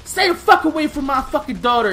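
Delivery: imitating the mom telling him off; mom's lightly voiced final warning; mild angry mom. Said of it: "And she's like".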